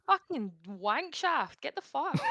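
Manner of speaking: Scottish accent. Shown as a demonstration. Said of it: "you gotta just be like".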